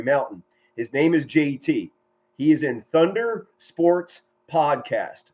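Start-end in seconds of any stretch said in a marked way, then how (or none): 2.8-5.2 slow, evenly spaced "Thunder Sports Podcast"; "Thunder Sports Podcast" drawn out for listeners; deliberate plug. Real, not acted. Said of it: "I'll say that again".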